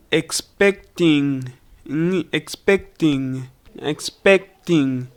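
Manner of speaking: slow "expecting" with an NG ending. Shown as a demonstration. Teacher drilling the final sound, slow "expecting". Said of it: "The final energy of expecting".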